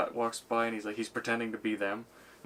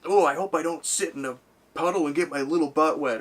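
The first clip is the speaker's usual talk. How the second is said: a touch higher, louder silly voice; mock nervous guy; 4 semitones higher, 6 dB louder than usual. Comedian mimics an aggressive walker, lightly whiny voice. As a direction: whine it like a jumpy tough guy. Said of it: "and he's like".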